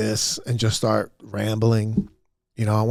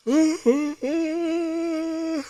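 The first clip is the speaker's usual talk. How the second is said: vocal yawn. Real, not acted. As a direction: let a big yawn out. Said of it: "I'm vocal with the yawn".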